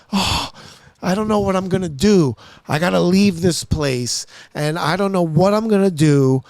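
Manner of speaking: mock-weepy lament, pitch lifted a little; imitated crying. Little old lady pouring out her troubles to him, mock tearful. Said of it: "and she's crying".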